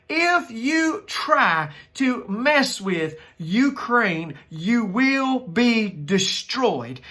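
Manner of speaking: slow, deliberate threat to an enemy; stern warning. Pretend. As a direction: lay out the threat word by word, slowly. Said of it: "I would look at him straight in the face and I would say".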